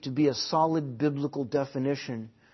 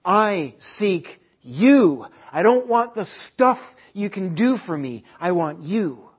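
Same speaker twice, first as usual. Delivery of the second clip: slow, louder, pleading "I seek you"; a lightly voiced God calling his people; 3 semitones higher, 5 dB louder than usual. Pastor voicing God to Christians, slow earnest plea. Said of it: "God speaks to you this morning".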